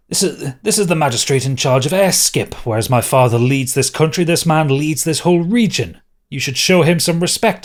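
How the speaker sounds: indignant prince. Acted. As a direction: lecture them hotly in defence of the magistrate. GM voices scolding prince.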